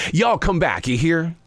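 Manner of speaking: a light Southern accent; lightly put-on Southern twang. Shown as a demonstration. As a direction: say it with a touch of Southern hospitality. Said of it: "I know what the Southern accent is".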